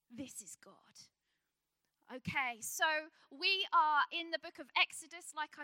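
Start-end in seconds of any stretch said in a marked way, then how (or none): 0.1-1.1 softer, drawn-out whisper; awed hush, slowed down; slower awed whisper. Acted. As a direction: let it fall to a breath. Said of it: "repeated hushed, slower".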